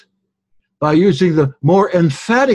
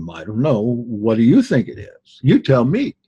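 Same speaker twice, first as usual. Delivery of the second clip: mock shrug; 4 semitones lower than usual. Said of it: "John always says".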